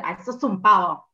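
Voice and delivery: disdainful insult; scornful tone. Shown as a demonstration. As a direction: say "Ay, sos un pavo" as a real put-down. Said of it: "el tono, el gesto".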